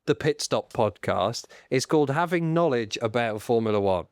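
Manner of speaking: low, nasal know-it-all delivery; full nasal voice. Acted. Podcaster showing off Formula One knowledge, full nasal voice. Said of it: "go full nasal voice".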